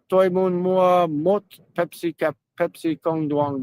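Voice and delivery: slow, careful Vietnamese order for a sugar-free Pepsi; slow Vietnamese phrase. Shown as a demonstration. Showing a friend a useful shopping phrase, slow careful Vietnamese. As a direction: say it slowly like a learner.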